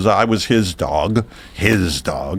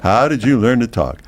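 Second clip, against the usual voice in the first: higher, mock-curious parroting of questions; mocking mimicry; 4 semitones higher than usual. Weary dog imitating every visitor who shows up, mocking.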